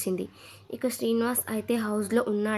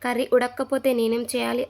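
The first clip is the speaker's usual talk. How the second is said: irritated; 2 semitones higher, 4 dB louder than usual. Retold or imitated. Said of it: "చిరాకు పడింది మాధురి".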